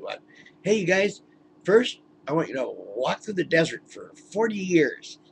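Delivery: booming mock God, hammed up; God boasting to the heavenly hosts, mock voice. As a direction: play God showing off to the angels, half-joking. God voiced telling Jews rules.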